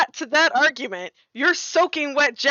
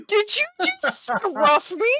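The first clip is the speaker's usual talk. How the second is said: indignant disbelief; 11 semitones higher, much slower than usual. Acted. Cat character repeats, more outraged.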